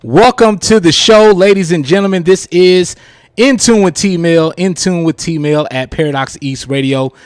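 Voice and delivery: show host opener. Acted. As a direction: welcome the audience like a host.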